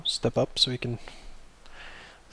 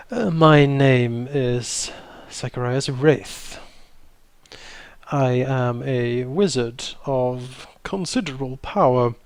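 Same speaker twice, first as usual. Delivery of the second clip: grand wizard; slower than usual. Acted. Wizard introduces himself grandly.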